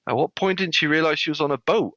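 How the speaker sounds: high-pitched incredulous question; baffled skipper. Retold or imitated. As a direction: imitate a skipper who cannot believe it.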